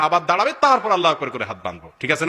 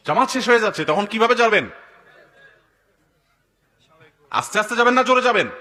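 rising urgency; 6 semitones higher, 4 dB louder than usual. Acted. Preacher rousing the crowd.

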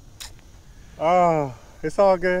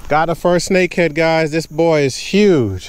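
excited announcement; 4 semitones higher, 4 dB louder than usual. Real, not acted. Angler telling viewers about his first snakehead, proud and loud. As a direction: show off the catch to the camera.

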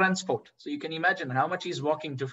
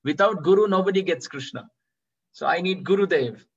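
put-on a boy's raised, pleading call to the river goddess; 3 semitones higher, 4 dB louder than usual. Boy on the Yamuna bank calling to Radha and Krishna, pleading. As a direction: call out across the water, begging for a guru. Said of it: "calling out".

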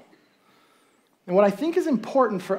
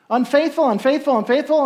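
mock gossip; 6 semitones higher than usual. Townsfolk gossiping about Gomer.

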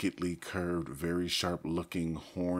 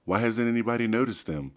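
reasonably; 6 semitones higher, 7 dB louder, faster than usual. A narrator's reading. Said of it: "Marco said reasonably".

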